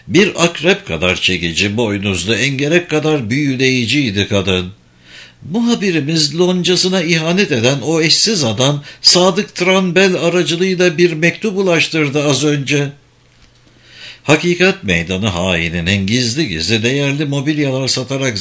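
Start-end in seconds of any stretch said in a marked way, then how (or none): 5.5-12.9 slightly raised, higher wife's voice; lightly voiced scheming wife. Wife reporting a secret letter to her husband, lightly voiced. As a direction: lightly play a conspirator sharing news.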